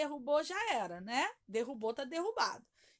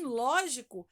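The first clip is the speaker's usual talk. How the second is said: lógico with a loud, stretched ló; stress on first syllable; 7 dB louder, slower than usual. Shown as a demonstration. Teacher contrasting the odd word out, lógico stressed on ló. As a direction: hit the opening ló of lógico. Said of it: "a sílaba tônica é o ló".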